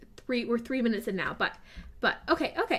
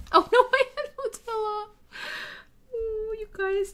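higher, laughing through the words; 12 semitones higher, 3 dB louder than usual. Real, not acted. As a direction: laugh at your own blunder. Building mishap, laughing.

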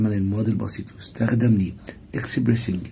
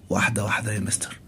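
student pleading; 2 semitones lower, 5 dB quieter, faster than usual. Acted. Student asks teacher to slow down.

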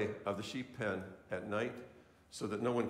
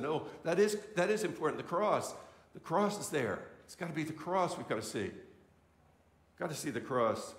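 raised, higher pleading insistence; insistent retort; 4 semitones higher than usual. Retold or imitated. Preacher retelling how he pressed his friend about the cross, insistent and raised. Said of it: "I said".

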